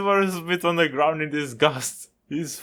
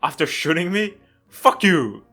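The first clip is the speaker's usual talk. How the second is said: angry; 2 semitones higher, 6 dB louder than usual. Acted. Furious at the apology.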